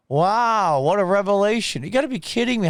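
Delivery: high, mocking amazement; sarcastic disbelief. Real, not acted. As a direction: fake astonishment at the obvious. Sarcastic reaction to the poll.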